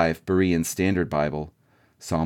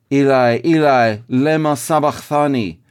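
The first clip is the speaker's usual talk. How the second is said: higher and louder, crying out Eli, Eli; loud anguished cry; 6 semitones higher, 6 dB louder than usual. Acted. Jesus on the cross calling to God: loud anguished cry. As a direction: call it out in anguish to heaven. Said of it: "Jesus cried out in a loud voice".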